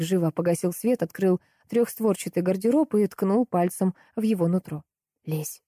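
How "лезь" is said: very soft, mouthed command; barely voiced. A narrator's reading. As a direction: order it with hardly any sound. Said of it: "одними губами сказал он".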